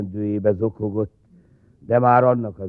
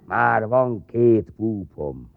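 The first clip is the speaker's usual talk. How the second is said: grumbling through dentures; much slower than usual. Acted. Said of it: "mérgesen odaszól, csak úgy műfogsorhegyről".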